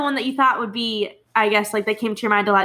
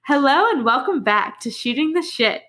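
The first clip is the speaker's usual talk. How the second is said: a hint of podcast-host intro, pitched a bit higher; lightly put-on show opener, higher than chat; 4 semitones higher than usual. Shown as a demonstration. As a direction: welcome listeners in a slightly raised host voice. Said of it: "gonna hear my, like, intro voice".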